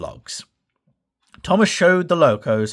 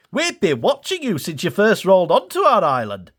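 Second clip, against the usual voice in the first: Dash voice; 6 semitones higher than usual. Acted. Dash speaks to Thomas.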